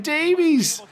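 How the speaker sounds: full-throated play-by-play goal shout; goal call. Real, not acted. Cross leading to a goal.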